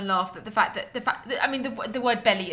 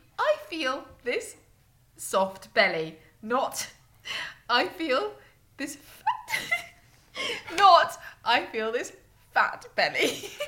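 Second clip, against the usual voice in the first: swooping voice, reading through held-back laughter; 4 semitones higher than usual. Reading an example aloud from a text, trying not to laugh. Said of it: "I don't think I can read this without laughing".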